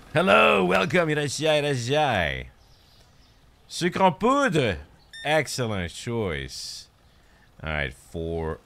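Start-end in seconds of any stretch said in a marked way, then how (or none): 0.1-2.5 high, loud greeting easing off toward the end; shouted welcome. Acted. Shopkeeper welcoming people into the store, high loud call. 3.7-4.8 high, loud, drawn-out product call; hawker's call. Acted. Shopkeeper calling out powdered sugar to a customer, loud drawn-out call.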